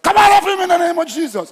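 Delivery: high, loud evangelist scream; screaming deliverance prayer. Retold or imitated. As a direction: shout it out like casting out a demon. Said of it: "He screams out".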